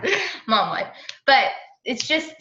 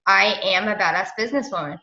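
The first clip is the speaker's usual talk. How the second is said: affirmation said aloud; 2 semitones lower than usual. Shown as a demonstration. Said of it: "telling yourself every day".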